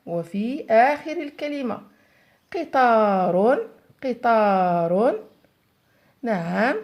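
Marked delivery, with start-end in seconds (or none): 2.5-5.2 loud and very slow قطار; teacher dictating to the whole class, slow and loud; slow loud dictation. Shown as a demonstration. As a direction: call out قطار slowly and loudly, with a strong ق at the start. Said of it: "يوجد في أول الكلمة".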